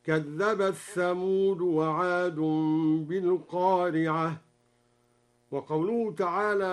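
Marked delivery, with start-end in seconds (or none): 0.0-4.4 "كذبت ثمود" run together as kadhdhabath-thamud; slow recitation, the t of "كذبت" merged into "ثمود"; merged letters. Shown as a demonstration. Sheikh demonstrates assimilation, "كذبت ثمود" as kadhdhabath-thamud. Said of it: "وأدغم الثاء في التاء".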